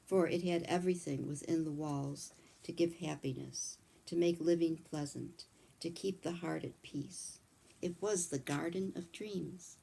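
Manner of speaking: measured storybook reading voice; gentle read-aloud storytelling; story narration. A narrator's reading.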